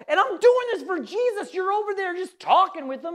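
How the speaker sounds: mildly madder. Acted. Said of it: "getting madder and madder".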